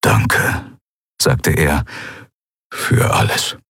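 unvoiced, hushed thanks; whispered parting thanks; whispered farewell. A narrator's reading. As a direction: breathe the goodbye. Keru's quiet farewell.

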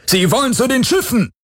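panicked shout from inside; alarmed shout. A narrator's reading. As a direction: scream the warning across the house. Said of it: "hörte er jemanden im Haus rufen".

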